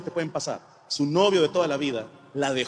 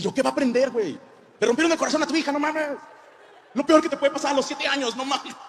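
indignant; 8 semitones higher than usual. Retold or imitated. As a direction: protest in outrage. Indignant argument with his wife.

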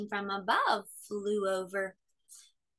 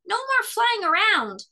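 stern; 11 semitones higher, 5 dB louder than usual. A narrator's reading. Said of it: "said Fletcher sternly".

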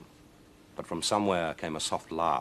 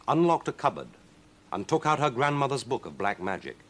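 ordinary delivery

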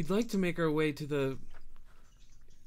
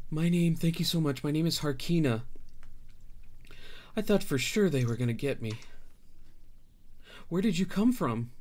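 grateful refugee; 4 semitones higher than usual. Acted. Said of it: "she says".

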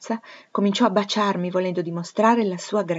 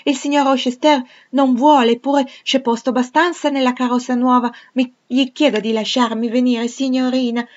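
put-on high, loud child's voice begging; a small girl pleading excitedly to come along; eager little girl; 6 semitones higher, 9 dB louder than usual. A narrator's reading. Adele begs to join the trip.

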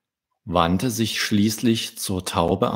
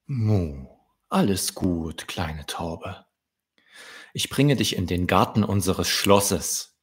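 reassuring; 2 semitones lower than usual. Acted. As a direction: gently reassure the dove. Cow queen reassures the dove.

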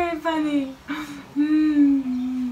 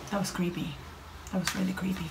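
soft, lower shaken voice; quiet; 4 semitones lower, 11 dB quieter, faster than usual. Real, not acted. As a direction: say it quietly, still spooked. Shaken after the scare.

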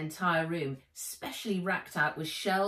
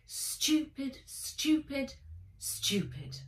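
irritated; 7 semitones higher, slower than usual. Acted. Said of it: "Saskia sighed, swiped at the dress".

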